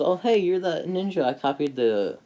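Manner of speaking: high eager kid voice, lightly voiced; a light imitation of an excited boy; lightly voiced eager young ninja; Naruto's eager voice. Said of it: "and Naruto goes".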